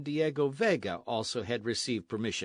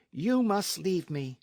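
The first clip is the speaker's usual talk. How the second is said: firm order in a raised voice; 7 semitones higher, 3 dB louder than usual. A narrator's reading. Señorita tells the captain to leave, firm. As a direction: dismiss him firmly, pitched up. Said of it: "she said firmly".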